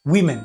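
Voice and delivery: "ዊመን" with "wi" in the first syllable; WI-men for "ዊመን", not WU-men; model pronunciation. Shown as a demonstration. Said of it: "በቃ ዊመን እያ ትንበብ".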